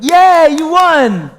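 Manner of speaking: a high, loud mock celebration; mock cheer. Imagined fans cheering a talent show win, mock-excited and loud. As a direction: cheer like a crowd congratulating him. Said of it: "people being like".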